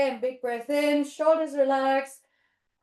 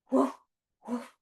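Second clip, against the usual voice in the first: two small, careful woofs; gentle dog woofs. Pretend. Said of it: "Just gentle".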